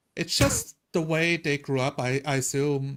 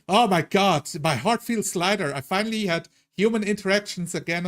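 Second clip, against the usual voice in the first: mock relief; 4 semitones higher than usual. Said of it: "That was like".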